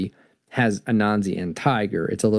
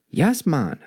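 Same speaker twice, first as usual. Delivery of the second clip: lightly voiced Jamaican accent, pitched up; a hint of Jamaican lilt, higher; 5 semitones higher than usual. Anansi answers Tiger, lightly done Jamaican accent. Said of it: "kind of a Jamaican accent style".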